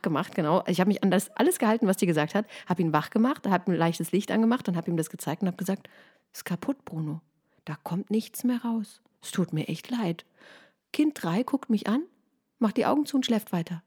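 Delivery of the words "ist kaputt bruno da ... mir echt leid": soft night-time whisper, slowed; barely voiced, so the baby won't wake; hushed, gently sorry whisper to a sleepy child.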